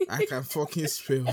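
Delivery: loud, slow, emphatic boast; gloating. Real, not acted. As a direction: hammer each word home, triumphant. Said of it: "I've finished gloating".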